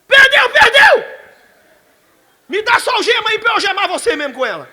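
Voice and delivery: mock robbery yell, laughing at the end; robber's shout. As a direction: yell it like a bandit holding up the cops. Robbers at police station.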